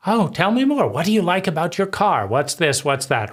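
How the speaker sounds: high, bright eager questions to draw them out; eager interest. Shown as a demonstration. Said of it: "you bask in the excitement".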